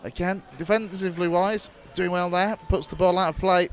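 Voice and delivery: steady radio match commentary; live play-by-play. Acted. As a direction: call the match as it unfolds.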